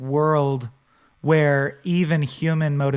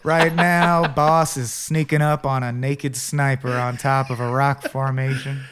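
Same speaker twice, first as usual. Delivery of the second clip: cowboy narrator voice. Retold or imitated. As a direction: narrate like the old cowboy, only lightly. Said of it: "in that cowboy voice".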